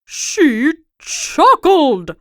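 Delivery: king crying about being laughed at, slow wail. Acted. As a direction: wail it like a big baby. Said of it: "cried the king".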